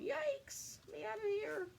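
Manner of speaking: high squeaky yelp of fright; tiny fish squealing in panic; panicked little fish. Acted. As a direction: shriek like a tiny scared fish. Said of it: "those little fish are going".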